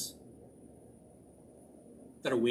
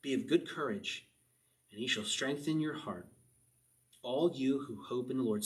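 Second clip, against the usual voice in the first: gentle reread; 3 semitones lower than usual. Acted. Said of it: "What a beautiful way to end this psalm".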